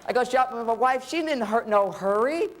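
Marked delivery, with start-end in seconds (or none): 1.1-2.5 pitched up through laughter; laughing. Real, not acted. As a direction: laugh as you tell it. Laughing about wife's shopping.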